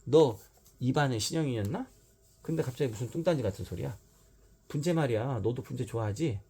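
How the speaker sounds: 높고 들뜬 아이 목소리로 다가가듯; 친구 사귀고 싶은 아이처럼 들뜨게; eager child voice. Acted. 신영이 유마에게 말을 거는 장면. (들뜬 아이 목소리)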